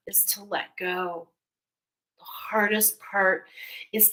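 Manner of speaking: slow, hushed words to the listener, partly whispered; soothing psychic reading. Acted. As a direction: ease them gently into letting go. Slow intuitive reading to pile.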